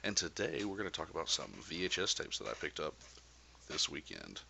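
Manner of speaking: lightly put-on weird host voice. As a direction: open the video in a mildly silly announcer-like voice. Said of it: "I'm doing the weird voice".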